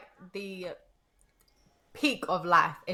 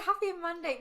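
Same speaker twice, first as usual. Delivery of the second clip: squeaky voice; 6 semitones higher, 5 dB quieter than usual. Real, not acted. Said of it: "Me and my squeaky fucking voice".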